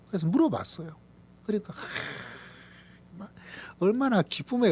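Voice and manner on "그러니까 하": slow airy exhale of wonder; long breathy sigh. Real, not acted. Pastor recalling his wife's joy, breathy sigh. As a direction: let out a long amazed breath.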